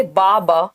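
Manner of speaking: drawn-out "बा", one syllable at a time; single syllables. Shown as a demonstration. Teacher showing baby babbling, single drawn-out syllables. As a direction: say "बा" as a long, separate babbled syllable. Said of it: "single syllable word आप use कर रहे हैं".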